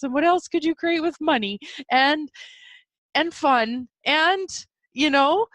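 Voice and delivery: excited inner voice. Retold or imitated. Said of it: "My body's like".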